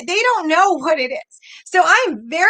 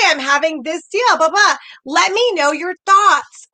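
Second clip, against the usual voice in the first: friendly sample message. Shown as a demonstration. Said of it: "Don't say their name".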